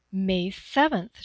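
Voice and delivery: slow, bright, eager exclaim; excited exclamation. Acted. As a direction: burst out with the answer. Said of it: "she exclaimed excitedly".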